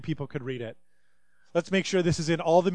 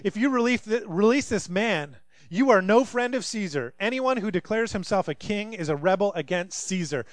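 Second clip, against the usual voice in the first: mock shout; 4 semitones higher than usual. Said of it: "the Jewish leaders shouted".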